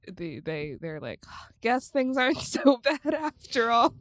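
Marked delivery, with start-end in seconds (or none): 1.6-3.9 laughing through a mock tearful line; half-laughing sappy sigh of relief; mock sentimental. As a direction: play it teary and laugh it off. Voiced couple, mock sentimental.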